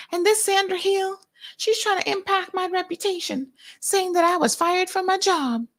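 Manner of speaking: mocking John Felder. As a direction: pitch it way up and brag like a con man. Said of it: "But anyway".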